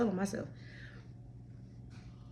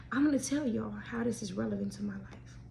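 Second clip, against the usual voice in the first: whisper; 5 dB quieter than usual. Real, not acted. Confiding aside to the audience.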